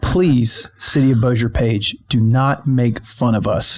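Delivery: slow, deliberate mock-earnest appeal; mock plea. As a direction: plead straight to the listener, tongue in cheek.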